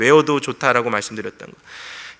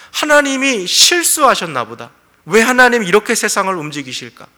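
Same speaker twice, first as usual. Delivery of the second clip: high, louder grumbling as Job; resentful complaint; 5 semitones higher, 5 dB louder than usual. Acted. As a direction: protest that God got it wrong. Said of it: "은연중의 원망함과 그 불평함". (원망하며 따지는 말투)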